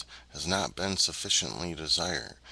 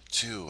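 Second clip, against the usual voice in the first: "to" lifted higher and said alone as the stressed word; 4 semitones higher than usual. Shown as a demonstration. Teacher demonstrating the stress moving to "to". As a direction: push up on "to". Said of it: "and then the word".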